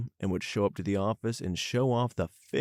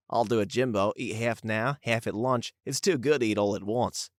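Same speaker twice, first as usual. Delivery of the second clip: lightly put-on Aussie voice; amateur Australian impression of a coworker; attempted Australian accent; 3 dB louder than usual. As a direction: have a go at a casual Aussie accent. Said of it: "not sure how good that accent was".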